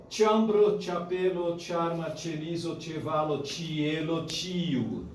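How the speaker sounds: each ch in "chambro, chapelo, charma" said as tch; tch sound demonstrated. Shown as a demonstration. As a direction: recite "chevalo, chielo" with tch onsets, word by word. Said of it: "que era em tcheco".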